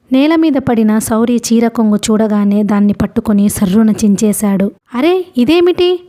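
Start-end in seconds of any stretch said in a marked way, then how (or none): 4.9-6.0 high, startled question; narrator's acted fluster. A narrator's reading. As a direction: exclaim in mild alarm, pitched up. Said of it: "అంది కంగారుగా".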